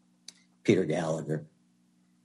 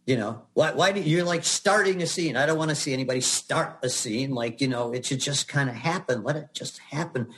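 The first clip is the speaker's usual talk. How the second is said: imitated yelling director; 6 semitones higher than usual. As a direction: imitate an exasperated director berating an actor. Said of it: "He's yelling at me".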